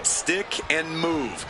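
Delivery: slow and deliberate; slow, drawn-out advice. Shown as a demonstration. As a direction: spell it out slowly.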